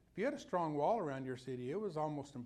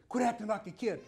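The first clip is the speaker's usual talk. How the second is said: a higher, louder scolding dad line; stern dad; 7 semitones higher, 6 dB louder than usual. Retold or imitated. Movie dad scolding his son, mock stern raised voice. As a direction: snap at the boy like a fed-up father. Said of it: "Robin Williams was the dad, and he goes".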